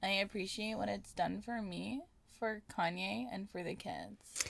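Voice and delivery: slow, flat vocal fry; Kardashian vocal fry. Pretend. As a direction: drag it out in bored fry. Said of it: "voices are so deep but so vocal fry-y".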